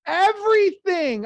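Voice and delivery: high, loud and drawn out; triumphant slow exclamation; excited. Real, not acted. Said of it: "I even got up on my tippy toes".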